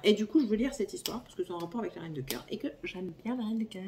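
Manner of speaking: fast breathy whisper; rushed whisper. Real, not acted. Explaining why she wants this book, she whispers quickly. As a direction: hurry it out under your breath.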